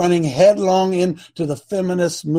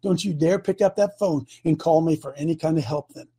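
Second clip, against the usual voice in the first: retold scolding; 4 dB louder than usual. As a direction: build from a cold warning to a loud tirade. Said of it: "I said".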